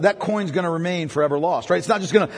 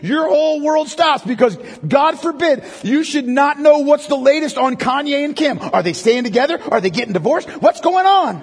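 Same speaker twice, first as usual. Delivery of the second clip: mock panic; 5 semitones higher than usual. Mock panic over a lost phone.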